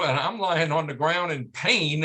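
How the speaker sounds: usual speaking voice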